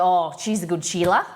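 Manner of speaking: jokey Australian twang on "good Sheila"; light Australian accent for a laugh; put-on Aussie accent. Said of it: "'cause you put on an accent".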